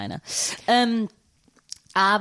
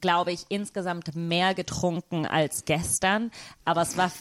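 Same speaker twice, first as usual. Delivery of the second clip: hungover; 3 semitones lower than usual. Real, not acted. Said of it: "ja, ich bin verkatert".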